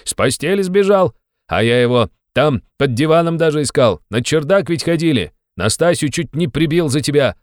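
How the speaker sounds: loud, high, furious tirade; angry scolding. Acted. Razumikhin berating Raskolnikov for fleeing, shouting angrily. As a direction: tear into him like a furious friend.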